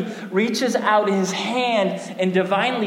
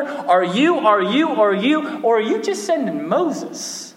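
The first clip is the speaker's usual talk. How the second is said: puzzled questioning; 4 semitones higher than usual. Pretend. Reader's puzzled questions to God.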